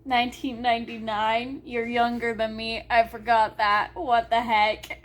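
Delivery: rising, disbelieving "Nineteen ninety-nine?"; incredulous. Retold or imitated. Reader reacting to the character's age, mock disbelief. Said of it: "and I'm like".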